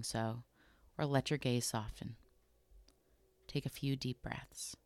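calm, unhurried body scan guidance with long pauses between phrases; guided meditation. Acted. Host guiding listeners through a body scan, calm guided meditation. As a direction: gently lead them through it, leaving room to notice.

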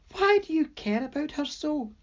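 amused demon. A narrator's reading. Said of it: "as she hooted with laughter".

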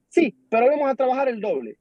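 high-pitched mock yell of an order; retold yelling. Boss demanding double work from the crew, mock yell. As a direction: imitate a bossy foreman hollering back. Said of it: "por qué me grita".

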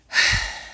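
long breathy sigh; exasperated sigh. Retold or imitated. Daughter reacting to being scolded, exasperated sigh.

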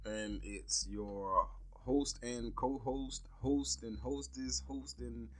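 holding back laughter; trying not to crack up; stifled giggles. Real, not acted. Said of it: "I'm trying not to laugh".

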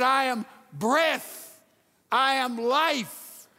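very slow, weighty words; solemn divine voice. Acted. God telling Moses who he is, very slow and weighty. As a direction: let each word land slowly.

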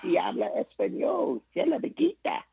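high, laughing mock Spanish; imitating wife's Spanish. Husband repeats his wife's Spanish, high and laughing. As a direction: sing it up high, laughing through it. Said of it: "She's practicing her Spanish".

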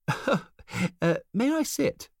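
high, polite stranger voice; smooth stranger. A narrator's reading. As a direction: ask it with a slick smile. Stranger speaks, chuckling.

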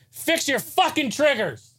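high, slow, strained yell; mock yell. Hammed-up yell at Sony to fix the triggers. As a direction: bellow it at the company. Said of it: "Let me get my voice ready to yell this".

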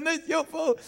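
put-on high whiny kid voice tossing it back; squabbling child retort; blaming back. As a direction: bicker like a child. Brother blames back.

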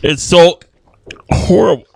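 teary, strained from the salt; eyes watering. Real, not acted. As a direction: talk through watering eyes. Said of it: "His eyes are watering".

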